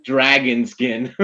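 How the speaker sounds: put-on Russian accent. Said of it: "Russian accent".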